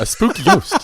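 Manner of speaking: high, loud mock spooky voice; spooky ghost voice. Echoing the Randy quote.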